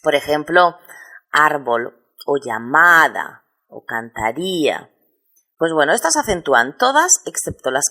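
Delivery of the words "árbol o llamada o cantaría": "árbol", "llamada", "cantaría" each leaning on the second-to-last syllable; stress on penultimate syllable. Shown as a demonstration. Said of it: "en la penúltima sílaba".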